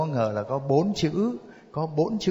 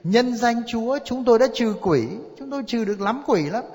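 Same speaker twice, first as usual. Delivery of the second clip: high, louder boasting of credentials; protesting crowd; 8 semitones higher, 3 dB louder than usual. Acted. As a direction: plead your case to the Lord, voice raised. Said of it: "nhiều người thưa với Đức Giêsu thế này".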